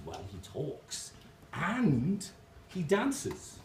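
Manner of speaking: drawn-out list, lifting at the end; building sales pitch. Acted. Barman selling the second parrot to the customer, building it up.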